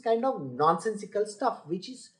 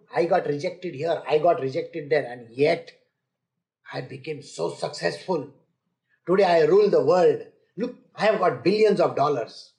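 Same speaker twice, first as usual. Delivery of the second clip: boasting success story; 5 semitones lower than usual. Retold or imitated. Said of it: "They talk like this".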